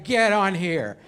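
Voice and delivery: put-on casual drunk-buddy instruction at normal pitch; offhand order from a tipsy driver's pal; understated drunk insistence; drunk friend. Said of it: "Waze is your drunk friend".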